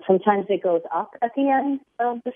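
rising tune at sentence end; uptalk. Shown as a demonstration. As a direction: lift the pitch up at the end of "sentence". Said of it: "like I'm doing now".

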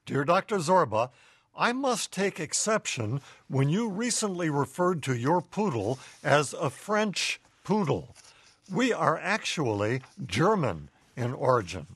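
lightly voiced indignant poodle; poodle's letter. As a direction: read it as a proud dog writing in. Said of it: "Mo writes".

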